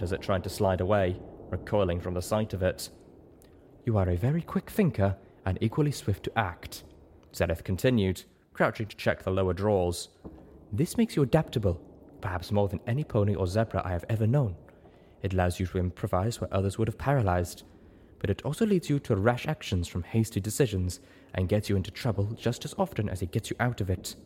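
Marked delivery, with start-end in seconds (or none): 3.8-6.8 lightly voiced zebra mentor, matter-of-fact; a hint of a wise zebra; measured zebra sage. 10.7-24.2 lightly voiced zebra mentor, matter-of-fact; a hint of a wise zebra; measured zebra sage.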